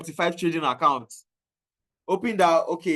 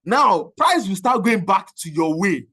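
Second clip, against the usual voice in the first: laughing; 5 semitones higher, 5 dB louder, slower than usual. Real, not acted. Laughing through the story.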